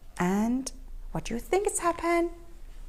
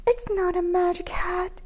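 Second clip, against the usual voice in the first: sad admission; 5 semitones higher, faster than usual. Acted. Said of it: "he admitted sadly".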